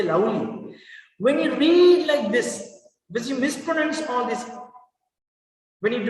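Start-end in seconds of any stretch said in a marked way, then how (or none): 0.0-0.7 "lovely" mispronounced as "lau-ly"; "lovely" without the V bite. Shown as a demonstration. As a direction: say "lovely" with W in place of V. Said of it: "Some people say".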